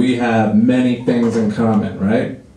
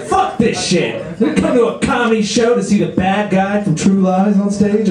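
disgruntled audience member; 7 semitones higher than usual. Acted.

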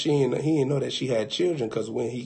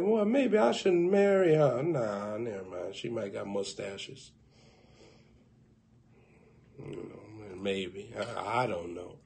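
much softer, lower musing; muttering to himself; 5 semitones lower, 9 dB quieter than usual. Acted. Man doubting the date to himself, quiet and low. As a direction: talk it over under your breath.

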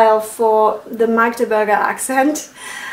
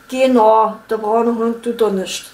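Saxon accent. Shown as a demonstration. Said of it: "Sächsisch".

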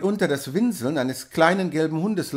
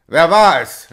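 loud sharp question; angry demand; 11 dB louder than usual. A narrator's reading. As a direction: confront the men at the carts. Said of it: "rief er". (zornige Frage)

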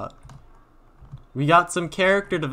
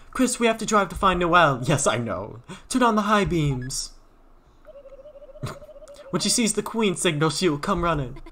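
a touch higher, regal; lightly voiced queen; 5 semitones higher than usual. Queen ordering Chris to drive, lightly voiced. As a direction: play the queen giving orders.

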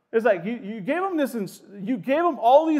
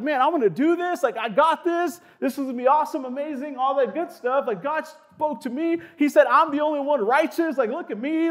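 excited Noah; 3 semitones higher than usual. Retold or imitated. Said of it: "he's excited".

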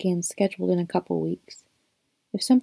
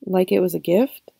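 "Like it was a gift?" with a questioning rise on "it"; unsure, offer it as a question; asking tone; 4 dB louder than usual. A narrator's reading. Boy unsure what the book meant to him, asking. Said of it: "he said askingly".

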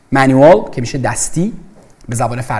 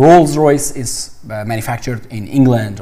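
very slow, deliberate English; slow example sentence; 3 semitones lower, much slower than usual. Shown as a demonstration. Teacher giving students an English example, very slow. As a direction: read it slowly so learners follow. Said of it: "میگید manufactured".

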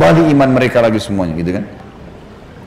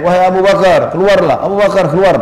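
calling out; 4 semitones higher than usual. Retold or imitated. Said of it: "Abu Jahal teriak-teriak".

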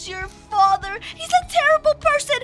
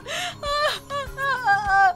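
acted sobbing. Crying over dead friend.

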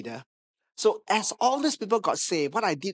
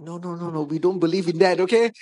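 rising, louder no-no-no denial; loud protest; 5 dB louder than usual. Retold or imitated. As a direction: push back hard, laughing it off. Pastor protesting astrology claim.

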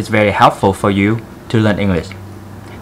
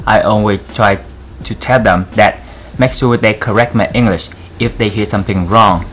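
put-on Vietnamese accent. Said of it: "I want to do this video in very thick Vietnamese accent".

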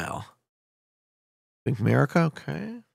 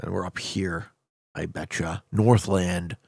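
ordinary talk

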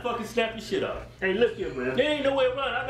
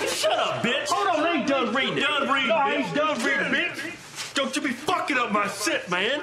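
yelling; 3 semitones higher, 3 dB louder than usual. Real, not acted. Loud cutting off while reading.

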